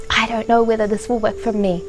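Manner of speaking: lightly voiced skeptic, a little held back; a touch of doubt, as if unconvinced. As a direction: imitate a skeptic, understated. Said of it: "sitting there like a skeptic going".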